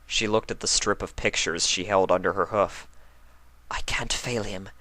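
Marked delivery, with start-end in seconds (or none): 3.7-4.7 inner thought. Acted. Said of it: "she thought to herself".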